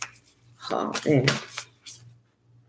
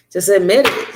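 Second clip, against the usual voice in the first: louder urging just admit it; emphatic urging; 3 semitones higher, 4 dB louder than usual. Shown as a demonstration. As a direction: push admit it. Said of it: "urging repeatedly".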